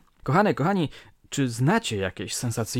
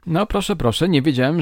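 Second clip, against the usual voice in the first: high, loud surprised exclamation; amazed; 5 semitones higher, 6 dB louder than usual. Real, not acted. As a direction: react with real astonishment. Host amazed at the story.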